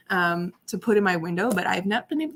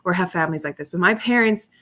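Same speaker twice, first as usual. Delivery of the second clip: ordinary talk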